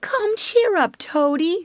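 high-pitched, coaxing encouragement; cheering up. Acted. Badger consoles weeping Toad, encouragingly. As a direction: coax him out of his tears.

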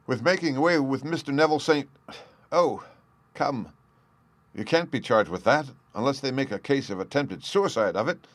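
mock amused grin. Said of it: "said the inspector with a grin".

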